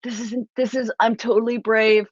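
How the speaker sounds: high-pitched mock brave front; wobbly, squeaky self-mockery, badly faked composure; pretending to be unaffected. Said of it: "pretend it doesn't affect me".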